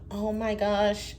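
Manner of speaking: lightly mocking alarmed voice; a hint of a scandalized believer; ignorant critic. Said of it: "Someone said something ignorant".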